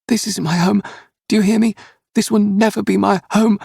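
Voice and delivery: put-on the boy's last burst of defiance; defiant child. A narrator's reading. Boy defying his captors.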